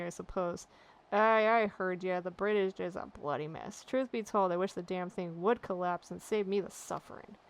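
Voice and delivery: put-upon dock foreman, grumbling and fed up; a tired bridge warden begging for relief; weary sailor. Acted. Maga complains to the adventurer, weary grumbling sailor voice.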